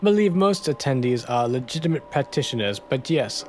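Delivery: put-on lightly French-accented; a hint of a scheming Frenchman. Toussaint admits his suspicions, light French accent. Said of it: "My French accent is absolutely".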